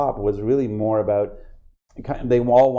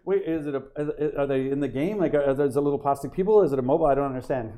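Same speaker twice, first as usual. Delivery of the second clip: higher-pitched, puzzled string of questions; imitated disbelief; 4 semitones higher than usual. Fans puzzling over little plastic people, mock bewildered disbelief. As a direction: fumble for sense like a confused fan. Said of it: "kind of have this disbelief".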